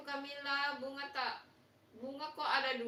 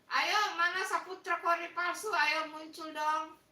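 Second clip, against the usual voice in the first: raised voice, coaxing someone to show up; calling out; 3 semitones higher, 4 dB louder than usual. Real, not acted. Host summons a missing viewer to appear, calling out. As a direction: call them out, drawing out the last words.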